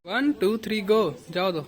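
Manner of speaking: cheerful one-two-three-go; calling the start. Real, not acted. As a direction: count them in to start the game. Counting off a game start.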